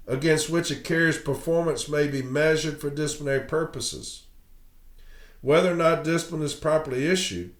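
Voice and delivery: reading a legal settlement aloud; formal document reading. Acted. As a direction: read it out like the official text. Reads a grievance settlement aloud.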